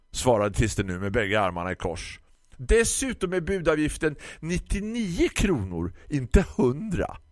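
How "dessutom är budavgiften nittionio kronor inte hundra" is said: grumpy florist. Acted. Florist lectures the customer about ordering online, high condescending voice.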